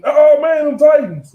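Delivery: high, loud hammed-up cheer; playful fake fan yell; mock fan cheer. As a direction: whoop it like a fan on a bike. Mock fan cheering while riding.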